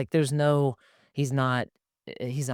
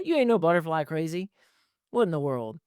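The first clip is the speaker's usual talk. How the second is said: a bit higher teasing dad; dad teasing his son, lightly higher; playful dad; 5 semitones higher than usual. Retold or imitated. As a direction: tease him fondly. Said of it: "dad voice in story".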